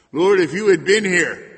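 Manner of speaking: loud, high cry of reproach; anguished cry. Acted. Preacher crying Martha's reproach at the Lord, loud. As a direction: cry it out to heaven. Climax of the complaint.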